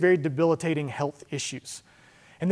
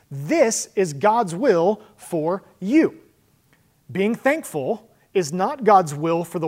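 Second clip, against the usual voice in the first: emphatic preaching; 4 semitones higher, 4 dB louder, slower than usual. Acted. Pastor stresses point.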